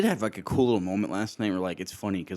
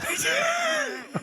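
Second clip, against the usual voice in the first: nervous laugh. Real, not acted. Caught out, laughing.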